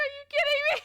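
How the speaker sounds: high, loud, hammed-up wail; mock sobbing. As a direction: wail it like a comic crybaby. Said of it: "I just started sobbing".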